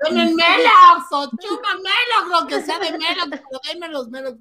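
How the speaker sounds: mock shouting. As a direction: beg loudly for Melox. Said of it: "pero a gritos así".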